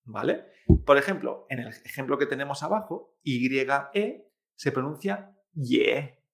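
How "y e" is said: "ye" held slowly with a clear Spanish e. Shown as a demonstration. Teacher showing learners a Chinese syllable, "ye" with Spanish E. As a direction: say "ye" with a plain Spanish e, drawn out. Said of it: "como la E española".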